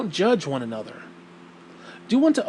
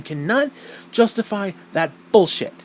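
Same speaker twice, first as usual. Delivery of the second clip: BULLSHIT punched for emphasis; emphatic swearing; 4 semitones higher, 3 dB louder than usual. Real, not acted. Host arguing that believers can't defend this, BULLSHIT said emphatically. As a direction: hit BULLSHIT hard at the end. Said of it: "I use the word bullshit for emphasis".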